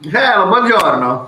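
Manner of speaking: a playful Italian-accented greeting; mock Italian accent. Shown as a demonstration. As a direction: greet them like a cheerful Italian. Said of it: "my best Italian accent".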